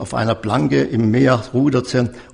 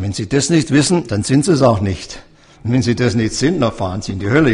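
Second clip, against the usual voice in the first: blunt and direct, no softening; much faster than usual. Retold or imitated. Young man bluntly warning the old man about hell, direct. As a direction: tell him straight out. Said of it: "Ich war da sehr direkt".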